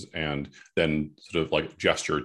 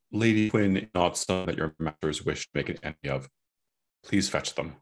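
firm but kind; 2 semitones lower, 3 dB quieter, faster than usual. Acted. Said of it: "not, like, unkindly, but firmly".

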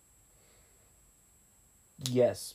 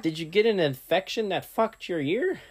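cowboy twang; 3 semitones higher, 4 dB quieter than usual. Acted. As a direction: ask it like a Western cowboy. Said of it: "Why did I say that in a Western voice?".

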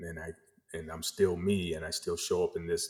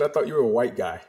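surprised guy; 4 semitones higher, 6 dB louder, faster than usual. Retold or imitated. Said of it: "He said".

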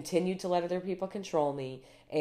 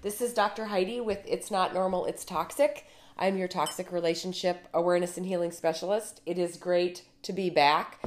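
speaking through a sore throat; a slightly rough, sore-throat voice; 3 semitones higher than usual. Real, not acted. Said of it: "I have a little bit of a sore throat".

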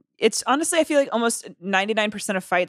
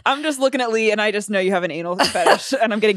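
laughing. Real, not acted. Laughing while talking.

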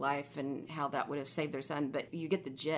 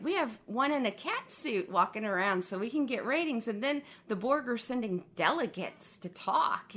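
mildly mocking, higher sing-song recap; mocking retelling; 5 semitones higher than usual. Fan ridiculing Voyager's take on the Borg, mocking. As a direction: send it up in a higher voice. Mocking the show's silly plot turns.

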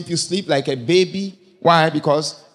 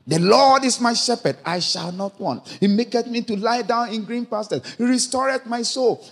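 higher, joyful psalm reading; 6 semitones higher than usual. Retold or imitated. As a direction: lift the psalm up with joy. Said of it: "he was so excited".

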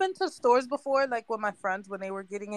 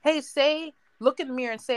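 life coach; 4 semitones higher than usual. Retold or imitated. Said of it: "have someone tell you".

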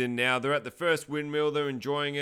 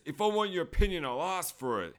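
mock irritated retort; 5 semitones higher than usual. Retold snappy retort in quarrel.

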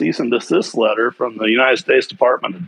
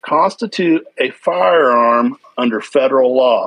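reading a letter aloud. Real, not acted. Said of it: "I'm gonna read you the part".

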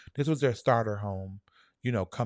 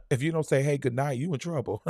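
laughing; 5 semitones higher, 8 dB louder than usual. Real, not acted. Laughing at own joke.

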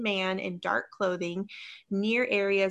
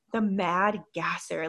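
reporter voice; slower than usual. Acted. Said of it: "my reporter voice".

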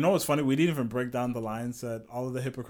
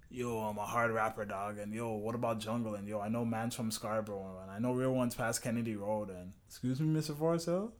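Toronto slang voice; 3 semitones lower, 5 dB quieter than usual. Retold or imitated. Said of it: "he started".

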